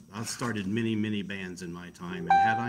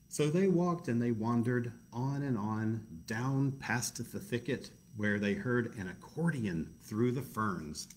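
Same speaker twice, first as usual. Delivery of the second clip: story narration. A narrator's reading.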